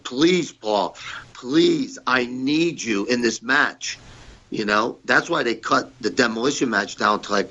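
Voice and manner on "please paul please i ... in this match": imitating Vince pleading. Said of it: "he was like".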